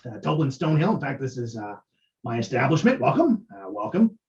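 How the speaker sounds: lightly voiced stammering dwarf; a hint of a jolly dwarf barkeep; dwarf innkeeper. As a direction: greet the guest with nervous cheer. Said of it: "he kind of toddles up to you and goes".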